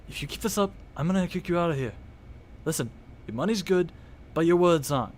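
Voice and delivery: hushed, stern barkeep; lightly voiced bartender, warning. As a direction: warn a troublemaker softly as the bartender. Game master plays bartender.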